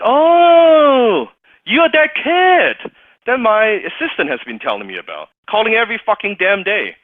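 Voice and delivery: loud, high booming recognition; a big personality suddenly placing the kid; boisterous mentor. Retold or imitated. Mentor recalling the persistent caller, loud and high.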